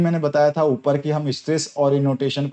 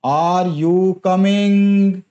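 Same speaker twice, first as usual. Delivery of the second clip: Are you coming? slow, pitch climbing higher on coming; rising intonation; 4 semitones higher, 3 dB louder, much slower than usual. Shown as a demonstration. Teacher demonstrating a rising question tune. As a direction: let coming rise up high. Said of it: "आवाज अंत में ऊपर जाती है".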